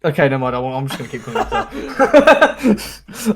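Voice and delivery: talking through a laugh; holding back laughter. Real, not acted. Player failing to stay in character with the mayor, laughing. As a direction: try to speak and crack up laughing. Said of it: "I can't say it without laughing".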